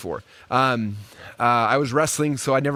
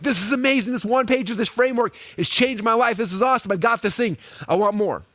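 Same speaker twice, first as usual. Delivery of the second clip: higher, eager voice of a thrilled customer; gushing customer; 6 semitones higher than usual. Pretend. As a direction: play a customer who can't get enough.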